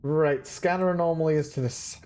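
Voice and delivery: talking through hiccups; hiccuping mid-sentence. Real, not acted. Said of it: "I'm hiccuping a little".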